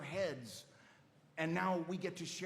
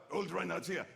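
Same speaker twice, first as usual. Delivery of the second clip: put-on old Reinhardt; 3 semitones higher than usual. Shown as a demonstration. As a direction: voice the old knight, lightly put on. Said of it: "You pitch it up in the top of the voice".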